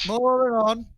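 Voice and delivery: high, loud "moving on"; insistent cut-off. Real, not acted. Cutting off a repeated argument.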